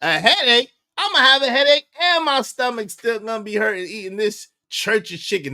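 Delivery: high whiny mock son voice. Host mocking the son complaining about Church's. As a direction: whine it like the spoiled son.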